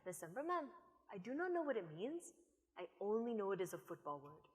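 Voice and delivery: lightly voiced small boy answering the coach; six-year-old player. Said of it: "he looked up at me and he said".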